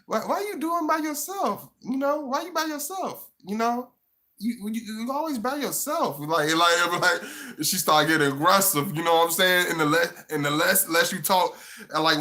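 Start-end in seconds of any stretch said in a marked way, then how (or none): 0.1-6.2 hammed-up sly flirting; mock flirty woman. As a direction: sweet-talk him up high. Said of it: "She like".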